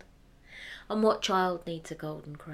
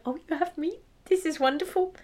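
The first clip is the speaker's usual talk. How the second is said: higher, thrilled wife voice; excited wife; 8 semitones higher, 4 dB louder than usual. Acted. The wife guesses the gift through the door, thrilled and high. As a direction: squeal with delight at the news.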